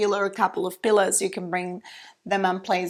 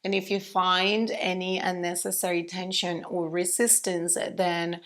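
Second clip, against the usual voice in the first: calm, quieter voice settling inward; guided meditation; 3 dB quieter than usual. Real, not acted. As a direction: ease them into stillness, unhurried with long pauses. Guides students into stillness.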